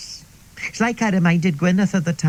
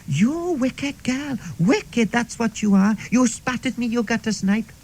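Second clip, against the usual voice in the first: outraged teacher; 5 semitones higher than usual. Retold or imitated. Teacher berating the pupil.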